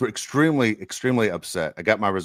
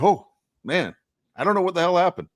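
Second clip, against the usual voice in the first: retold bafflement; 8 semitones higher than usual. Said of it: "And I'm like".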